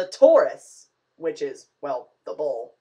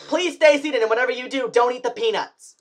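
flight attendant voice; 6 semitones higher than usual. Pretend.

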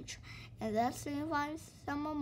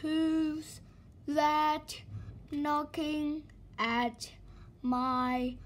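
calling downstairs; 2 semitones higher, much slower than usual. Acted. Mister Slow calls down to Mister Busy at the door. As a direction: call it down the stairs, drawn out. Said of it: "he called downstairs".

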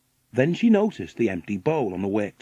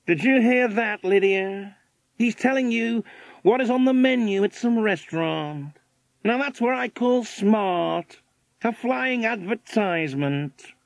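American millionaire, impressed; 9 semitones higher than usual. A narrator's reading. Millionaire marvelling to his wife at the bird, astonished American voice. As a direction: play the astonished American tycoon, high-pitched.

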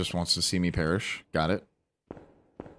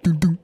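dun dun hummed like a horror cue, higher and louder; mock dramatic sting; 8 semitones higher, 6 dB louder than usual. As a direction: imitate the spooky movie sound. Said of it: "It said".

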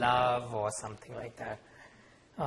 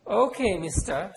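stern mother; 7 semitones higher, 8 dB louder, slower than usual. Acted. Mother scolding son.

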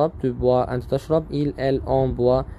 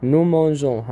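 nous prenons drawn out very slowly, each syllable clear; teacher to class, stretching out nous prenons slowly; slow teaching model; much slower than usual. Shown as a demonstration. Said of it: "هنا في دبل ان".

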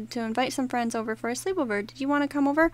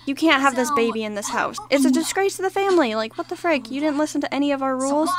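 scolding mom. Acted. Mom kicking her pregnant daughter out, stern scolding. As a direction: play the disappointed mother laying down the law.

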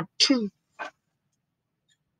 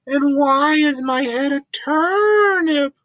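distressed cry; 2 semitones higher, 3 dB louder than usual. Acted.

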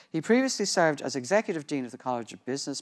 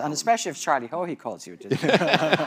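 laughing; 4 semitones higher, 8 dB louder than usual. Real, not acted. Host jokes, laughing at panelist.

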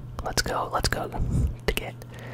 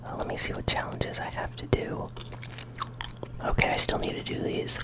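ASMR whisper. Real, not acted. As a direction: whisper close to the mic. ASMR gaming whisper throughout.

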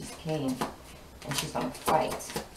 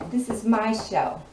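emphatic; 5 semitones higher, 4 dB louder, slower than usual. Retold or imitated. Repeating it with emphasis.

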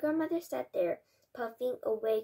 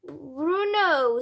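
loud, high, stunned cry of the name; stunned exclamation; 5 semitones higher, 10 dB louder than usual. A narrator's reading. Father sees his mouse son, stunned loud exclamation. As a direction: blurt the name out in shock. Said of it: "stammered Mister Jenkins".

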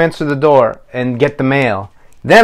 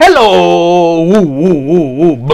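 a high, sing-song hello with hooting woos; kids' puppet showing a silly singsong greeting; 4 semitones higher, 5 dB louder, slower than usual. Shown as a demonstration. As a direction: make the greeting silly and musical. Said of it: "now try saying it like this".

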